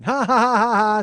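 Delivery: loud, high mock laugh; mocking laughter. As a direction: imitate her laughing at everyone. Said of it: "she just starts laughing".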